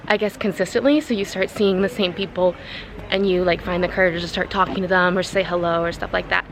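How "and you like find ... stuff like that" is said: breathless walking uphill; winded, pushing words out; out of breath. Real, not acted. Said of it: "I'm out of breath".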